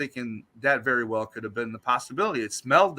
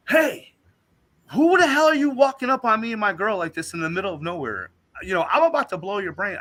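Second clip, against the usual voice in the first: retold threat; 7 semitones higher than usual. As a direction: warn off a stranger in the woods. Threatening the creature.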